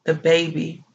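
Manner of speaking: quietly soothing a grieving partner; softly imitated reassuring whisper. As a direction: murmur reassurance into a loved one's ear. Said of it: "he whispered in my ear".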